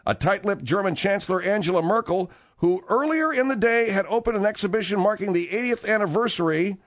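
lively newsreader delivery; news read. Acted. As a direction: read out the news story, pitch lightly lifted. Reads a news story.

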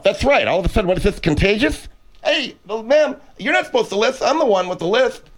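speaking with a lisp. Acted. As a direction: lisp on every s. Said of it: "You're lisping now".

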